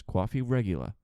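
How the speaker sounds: New York accent, R dropped on REGULA. Shown as a demonstration. Teaching newbies New York coffee slang, light New York accent. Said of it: "the New York accent".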